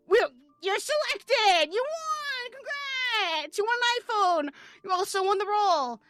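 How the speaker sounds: high, loud game-show-style whooping; mock prize announcement. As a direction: hail the winner with hammed-up, stretched-out cries. Acts out announcing the winner.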